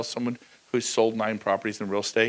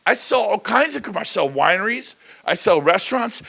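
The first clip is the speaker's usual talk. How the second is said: ordinary talk, nothing marked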